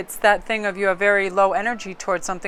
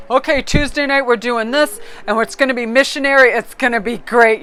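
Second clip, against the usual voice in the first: boring planner; 4 semitones higher, 6 dB louder than usual. Retold or imitated. Boring partner imitated.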